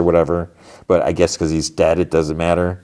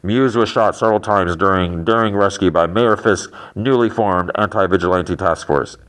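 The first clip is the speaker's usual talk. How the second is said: lightly imitated news report; TV newsreader. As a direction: read it out a bit like an anchor. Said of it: "the volume of the T V".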